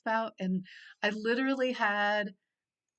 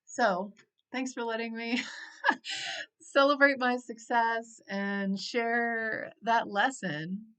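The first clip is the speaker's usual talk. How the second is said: real tears, slow and louder through a laugh; teary gratitude; 3 semitones higher, 5 dB louder, slower than usual. Real, not acted. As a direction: thank them while choking up. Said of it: "I'm feeling emotional".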